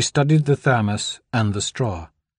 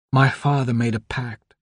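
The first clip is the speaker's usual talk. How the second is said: firmer, steadier delivery. Acted. Anna, recovering, tells Donald firmly. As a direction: find her strength again. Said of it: "her voice gaining strength".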